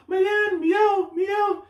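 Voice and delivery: very high singsong calls; mocking captain. Captain teasing the fisherman by name. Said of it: "making fun of this dude".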